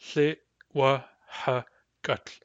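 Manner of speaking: Thli, Wa, Ha, Gut with long gaps; syllable by syllable. Shown as a demonstration. Teacher spelling out syllables one by one. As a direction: pause after each syllable. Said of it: "The syllables are".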